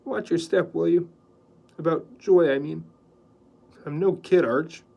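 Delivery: earnest warning; mean it, no joking; serious. A narrator's reading. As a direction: Riker warning his friend seriously. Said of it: "said Riker in a serious voice".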